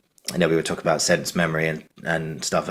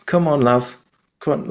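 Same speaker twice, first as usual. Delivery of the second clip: higher northern English mum, coaxing; northern English accent; 8 semitones higher than usual. Retold or imitated. Actor imitating the mum comforting her daughter, northern English accent. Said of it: "but he'd be like".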